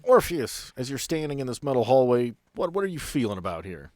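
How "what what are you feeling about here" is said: ordinary talk, nothing marked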